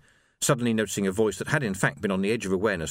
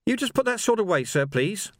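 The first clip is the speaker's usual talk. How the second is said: put-on nervous young constable; 10 semitones higher than usual. A narrator's reading.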